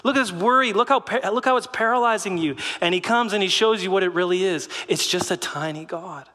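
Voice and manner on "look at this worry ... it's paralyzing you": amused, scornful voicing of Jesus; mocking Jesus. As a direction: point and scoff at the clown. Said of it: "Jesus is saying".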